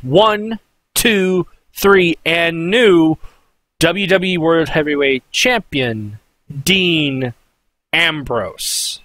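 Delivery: spaced-out count and title announcement; lightly imitated ring announcer call. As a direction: announce the new champion, pausing before the name.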